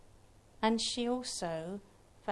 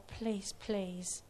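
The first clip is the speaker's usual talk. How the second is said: breathy whispered begging, barely voiced; whispered plea; 5 dB quieter than usual. Husband pleading with the healer for his brother, whispered. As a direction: beg in a hush, almost no voice.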